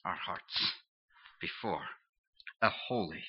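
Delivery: the preacher hushes the word of God's judgment of the heart; hushed whisper. Acted. Sermon climax drops to hush.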